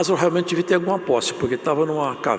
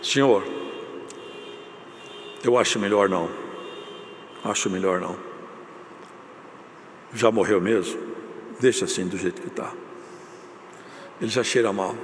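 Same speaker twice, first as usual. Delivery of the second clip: hesitant sister; 5 semitones lower, 5 dB quieter than usual. Retold or imitated.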